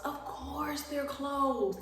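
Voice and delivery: sarcastic drawl. Retold or imitated. Resigned at the closed store.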